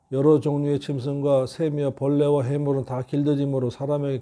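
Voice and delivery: steady, even recitation of scripture; scripture reading. Retold or imitated. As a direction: read the verses aloud evenly, without dramatizing. Reads the Bible passage aloud. (성경 말씀을 차분히 낭독하듯)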